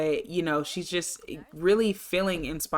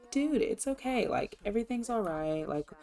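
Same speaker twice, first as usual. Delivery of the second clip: higher, softer imitated soothing; soft, high-pitched "chill, it's fine" act; mock reassurance; 4 semitones higher, 4 dB quieter than usual. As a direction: lightly play someone calming a worked-up friend. Voices Sim calming frustrated friend.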